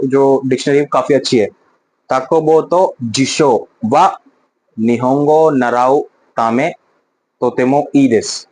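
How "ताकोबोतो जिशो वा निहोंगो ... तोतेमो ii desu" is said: slow model sentence. Shown as a demonstration. Teacher models Japanese sentence.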